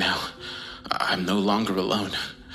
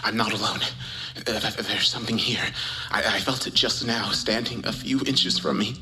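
rising panic; 2 semitones higher than usual. Acted. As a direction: let the fear build to the end. Senses presence, rising panic.

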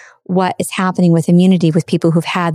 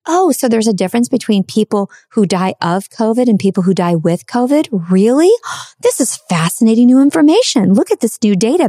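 mock wonder, sarcastic. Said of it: "The talking heads are following, saying".

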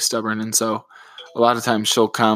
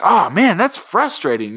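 empathetic commiseration; 9 semitones higher, 3 dB louder than usual. Shown as a demonstration. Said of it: "feel it, express it with them".

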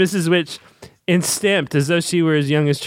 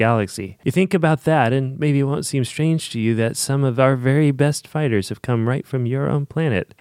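lightly voiced kindly old woman; 4 semitones lower than usual. Reading Mrs Watson comforting the children, lightly voiced.

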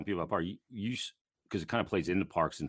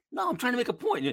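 mock protest; faster than usual. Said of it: "I'm like".

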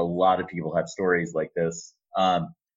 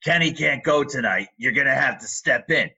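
higher, imitating a thick Staten Island accent; a boss's Staten Island accent, higher; 6 semitones higher than usual. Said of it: "in her thick Staten Island accent".

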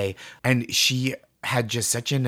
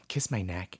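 softly; 5 dB quieter than usual. Retold or imitated. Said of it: "said to me very softly".

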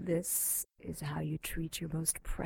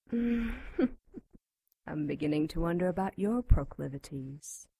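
pained mocking laugh; 6 dB louder, slower than usual. Demon taunts while beaten.

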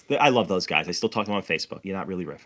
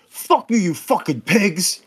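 high, drawn-out imitated yell; mock scream; 7 semitones higher, 3 dB louder, slower than usual. Drunk friend cursing out the cops, mock scream. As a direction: imitate a friend screaming, not at full volume. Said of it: "my good friend starts screaming".

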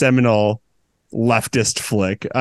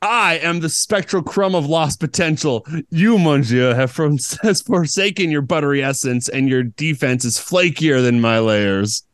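lightly French pastry oracle; a hint of grand sentient croissant. Croissant character voice.

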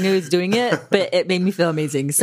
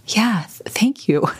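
higher, whispery thanks; grateful relief; 4 semitones higher, slower than usual. Acted. Speaker thanking the partner who listened, relieved. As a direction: say it moved, trailing into a whisper. Acting a speaker finally feeling heard.

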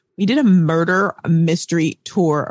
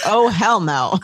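laughing mock refusal; slower than usual. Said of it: "Maddie would have been like".

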